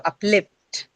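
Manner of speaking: "uplift" drawn out slowly with weight on LIFT; stress on second syllable. Shown as a demonstration. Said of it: "be on the second syllable itself".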